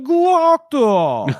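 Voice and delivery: high delighted shout of a name; beaming loud welcome; overjoyed greeting. Retold or imitated. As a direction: greet him like a long-lost friend. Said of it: "He's so happy to see him".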